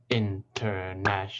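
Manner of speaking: international clapped out as five separate beats, in-ter-na-tion-al; syllable by syllable. Shown as a demonstration. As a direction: say "international" slowly, one beat per syllable. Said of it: "It helps to clap when we say the word".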